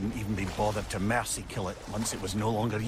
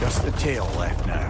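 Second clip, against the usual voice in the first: loud callout; 3 semitones lower, 7 dB louder than usual. Acted. Calling out during climb.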